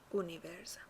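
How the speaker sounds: اونیورزا starting on "oo", no y glide; initial pure u. Shown as a demonstration. Teacher modelling the letter u, اونیورزا opening on pure "oo". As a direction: say اونیورزا as "oo-niverza".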